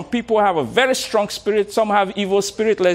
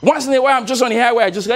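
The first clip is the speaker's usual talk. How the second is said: ordinary talk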